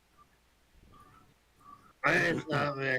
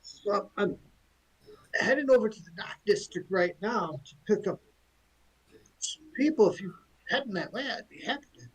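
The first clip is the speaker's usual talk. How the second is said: lightly voiced cheery driver, pitched higher; a chatty driver offering a lift, a bit higher; friendly cart driver; 5 semitones higher than usual. Dray driver offers the party a lift, lightly voiced and higher.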